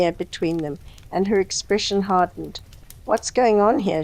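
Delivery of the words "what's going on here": demanded firmly. Acted. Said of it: "she demanded firmly".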